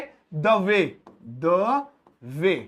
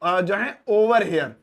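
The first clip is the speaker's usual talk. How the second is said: "over here" drawn out slowly; slow, careful teacher read; slow model phrase; 3 dB louder, much slower than usual. Shown as a demonstration. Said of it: "मैं कहूंगा".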